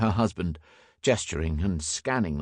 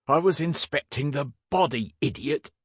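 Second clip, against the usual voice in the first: higher-pitched indignant comeback; exasperated retort; 7 semitones higher than usual. A narrator's reading. Inspector defends himself to the constable, exasperated. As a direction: answer a fool with impatience.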